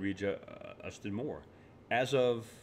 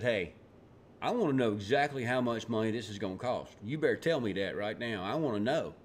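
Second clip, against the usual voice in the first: lightly put-on hillbilly accent, a touch insistent; a hint of hillbilly in a Republican's demand. Republican committee demanding to know the cost, hillbilly Republican accent. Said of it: "That was my hillbilly Republican accent".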